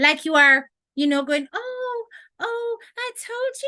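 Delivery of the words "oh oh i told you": very high, very slow, soft, drawn-out coddling voice. Talking about handling disrespectful people, the speaker demonstrates a mollycoddling voice. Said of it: "you're sounding like you are mollycoddling them".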